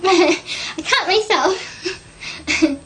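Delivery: laughing through tears, slowly; half laughing, half crying as feelings break through; emotional laugh. Real, not acted. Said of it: "I'm gonna get all emotional".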